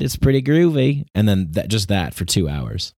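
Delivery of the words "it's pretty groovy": overjoyed podcast intro, pitched way up; positivity bubble guy. Pretend. Podcaster parodying a blissed-out host, high and cheery. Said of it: "tongue-in-cheek poke at people who live in, like, a positivity bubble".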